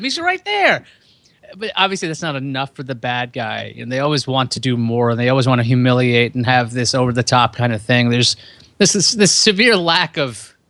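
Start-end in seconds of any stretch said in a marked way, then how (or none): 0.0-0.8 very high, shrill yell. Picturing a villain scene, imitating Seth Green yelling. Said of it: "I had Seth Green in my head from Austin Powers yelling".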